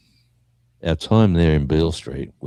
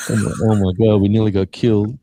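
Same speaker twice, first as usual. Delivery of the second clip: higher, louder imitation of shaken mates; mock panic; 5 semitones higher, 6 dB louder than usual. Bandmates back home after nearly being killed, mock panic. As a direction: act out a mate curled up in shock. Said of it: "into the fetal position, and started going".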